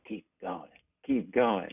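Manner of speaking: hushed, imitated whisper in the ear; whispered urging. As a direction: softly egg someone on, as if whispering close. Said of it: "he whispers in my ear".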